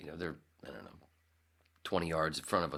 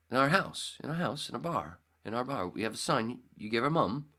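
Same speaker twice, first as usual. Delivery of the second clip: put-on high, louder child's voice, insisting; imitating kids; 9 semitones higher, 6 dB louder than usual. Friend's kids telling him about the sign, imitated kid voice. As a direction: pipe up like an excited Australian kid. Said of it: "they said something about a sign".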